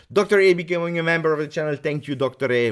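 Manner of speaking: high, loud, quick announcement; excited shout-out. Real, not acted. Streamer thanking a new member of the channel, excited shout-out. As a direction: burst out with a rousing welcome.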